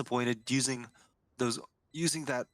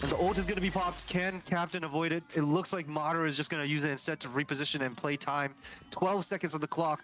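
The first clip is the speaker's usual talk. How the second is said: fast, rising play-by-play call; esports caster; 3 semitones higher than usual. Real, not acted. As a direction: call the ult pop live.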